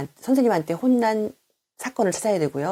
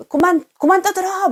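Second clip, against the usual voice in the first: put-on loud, high teacher's shout at noisy kids; scolding shout; 13 semitones higher, 6 dB louder than usual. Shown as a demonstration. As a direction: yell at the class to stop talking. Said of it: "막 이렇게 말을 할 때가 있거든요". (떠드는 아이들에게 높고 크게 외치는 호통)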